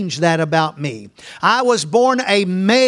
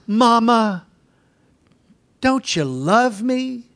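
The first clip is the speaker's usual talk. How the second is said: put-on pleading child; 3 semitones higher, slower than usual.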